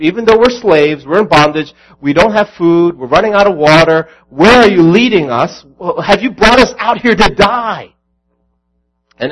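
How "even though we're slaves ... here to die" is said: louder, rising whine of grumbling Israelites; rising protest, pleading and accusing; mock complaining crowd.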